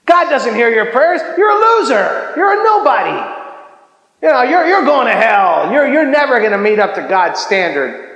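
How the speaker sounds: taunting, shouted condemnation, pitch jumping up; mock the listener like the enemy would; accusing voice in the head. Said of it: "I hear a voice that says".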